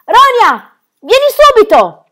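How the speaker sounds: high, loud shout to come; urgent shouted summons; urgent call. Acted. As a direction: call her over fast. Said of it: "udì la voce di Birk".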